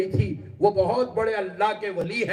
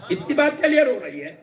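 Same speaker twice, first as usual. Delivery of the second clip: put-on surprised child; 8 semitones higher than usual. Child surprised at her tears.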